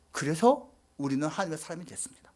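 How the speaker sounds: soft, awed whisper; preacher whispers that we became God's people. Real, not acted. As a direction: whisper the conclusion with reverence. Climactic point in sermon.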